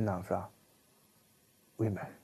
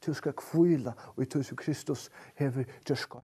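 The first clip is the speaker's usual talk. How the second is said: usual speaking voice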